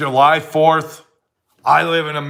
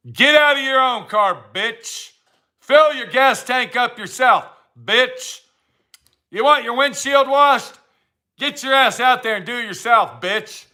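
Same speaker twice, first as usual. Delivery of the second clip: scornful, raised pitch, with a sneering bitch at each line end; mock scolding; 4 semitones higher than usual. Mocking drivers at the gas station, contemptuous scolding. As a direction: lay into them with contempt.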